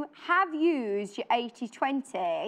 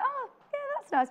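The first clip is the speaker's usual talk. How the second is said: mock indifferent; 13 semitones higher than usual. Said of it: "sometimes it's like".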